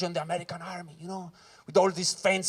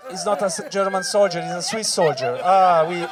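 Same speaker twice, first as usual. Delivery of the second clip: dismayed shouting; 7 dB louder, slower than usual. Retold or imitated. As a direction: yell at your fallen friend. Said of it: "I'm like".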